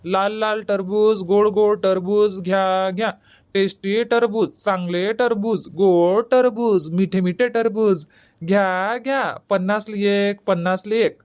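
slow, sing-song street vendor cry; drawn-out market hawking; hawker's call. Acted. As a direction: chant it like a village fruit seller.

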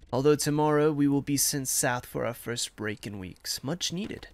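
measured letter read-aloud. Acted. Soldier writing to his Ma from Verdun, measured letter reading.

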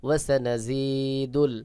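ওয়াসানাজিদুল said slowly as one word; joined word reading. Shown as a demonstration. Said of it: "spelled then joined". (ওয়াসানাজিদুল ধীরে মিলিয়ে)

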